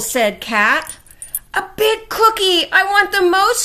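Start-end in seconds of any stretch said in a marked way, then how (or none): 1.5-3.6 high, loud greedy cat; story-book scream. A narrator's reading. Cat demanding a cookie from Dog, screamed high and loud. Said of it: "screamed Cat".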